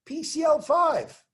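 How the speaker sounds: high-pitched, slow, emphatic proclamation; confident, drawn-out high call to the class; say it boldly. Shown as a demonstration. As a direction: belt each symbol out slowly like you mean it. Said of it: "You gotta be more like me".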